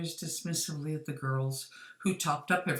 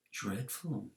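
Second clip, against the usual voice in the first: soft, low murmured reply; barely voiced, softer; 4 semitones lower, 7 dB quieter than usual. A narrator's reading. Ayumu murmuring sympathy to Inagawa, softly. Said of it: "murmured Ayumu".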